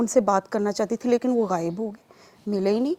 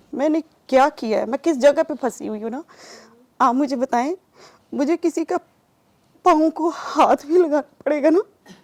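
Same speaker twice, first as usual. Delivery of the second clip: higher, insistent pleading, building louder; desperate retold plea; 4 semitones higher, 3 dB louder than usual. Woman begging her spiritual guide to tell her what she did wrong, pleading. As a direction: plead harder with each question.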